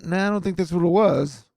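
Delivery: brushing off the flare-gun story, mock expert; dismissive expert. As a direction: shrug off the idea, mock-knowing. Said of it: "military people are like".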